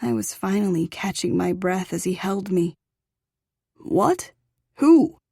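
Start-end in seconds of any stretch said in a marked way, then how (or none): 3.8-5.2 high, loud sudden alarm; alarmed surprise. A narrator's reading. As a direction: snap to attention. Father alarmed.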